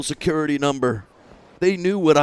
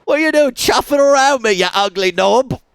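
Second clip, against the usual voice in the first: high, loud mocking sneer; snarling rockabilly jab; hooligan insult; 9 semitones higher, 6 dB louder than usual. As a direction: spit the insult like a punk.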